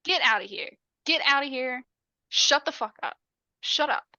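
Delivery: disbelief tipping into telling her to shut up; shocked outburst. Retold or imitated. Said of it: "Selby is like".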